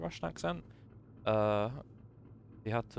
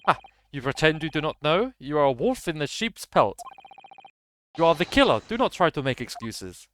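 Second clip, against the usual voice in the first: louder and higher, hammering each charge; angry accusation; 4 semitones higher, 4 dB louder than usual. Acted. Officer accusing the suspect of murder, angry. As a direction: accuse him to his face.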